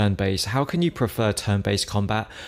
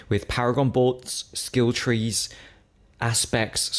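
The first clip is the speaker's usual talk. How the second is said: hiccups; slower than usual. Real, not acted. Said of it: "sorry, I'm hiccuping".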